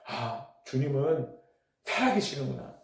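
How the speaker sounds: hushed, unhurried thought to oneself; quiet realization. Retold or imitated. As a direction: let the realization sink in softly. Preacher voices his own inward realization.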